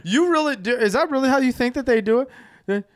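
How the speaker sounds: high, loud laughing disbelief; laughing, can't believe it. Real, not acted. Mocking friend's duck call belief.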